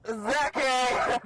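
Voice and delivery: loud call across the street; shouted name. Real, not acted. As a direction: yell his name to get his attention.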